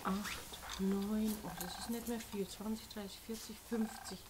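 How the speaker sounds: soft, half-voiced counting to oneself; counting under breath. Real, not acted. Cashier counting out the remaining coins, quiet and to oneself. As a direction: count the change quietly to yourself.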